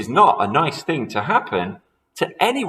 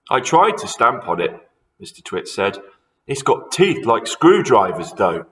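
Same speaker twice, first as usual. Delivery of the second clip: put-on sly old man; 2 semitones higher, 5 dB louder than usual.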